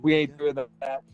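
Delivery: lightly voiced reluctant agent, drawn out; grudging brush-off in a retold voice; dismissive agent. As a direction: drag out a mock refusal. Agent refusing Barry's idea, retold.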